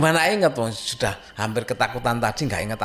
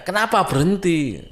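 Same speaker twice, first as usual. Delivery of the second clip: higher and louder, mock startled asking; alarmed question; 8 semitones higher, 6 dB louder than usual. Translating the friend's question, higher and louder in mock alarm. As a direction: replay the friend's alarm in Indonesian. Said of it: "Dalam bahasa saya".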